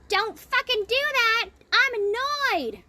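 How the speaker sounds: shrill-free but high, loud mock snap; loud bitch. Loud mean woman cutting someone down. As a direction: bark it like the rude woman in the group. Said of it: "some loud bitch went".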